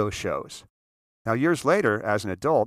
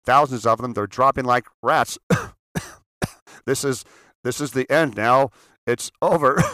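loud, frantic broadcast alarm; urgent news bulletin, rising panic; panicked radio announcer; 2 semitones higher, 6 dB louder than usual. Retold or imitated. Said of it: "there was a voice".

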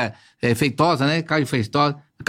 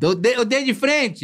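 laughing call; 6 semitones higher, slower than usual. Real, not acted.

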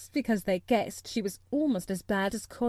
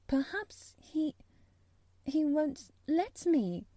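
slow, halting, higher voice, half afraid; hesitant; 5 semitones higher, slower than usual. A narrator's reading. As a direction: falter with a pause, unsure. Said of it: "she hesitated in a low voice".

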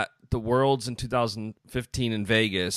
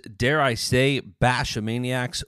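ringmaster. Acted. Host's ringmaster-style show opening.

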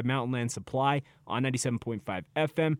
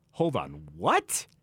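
mock disbelief; 7 semitones lower, much slower than usual. Host voices his startled reaction.

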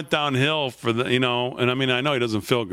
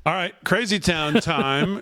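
mock announcer; 6 semitones higher, slower than usual. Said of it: "host kicks off segment".

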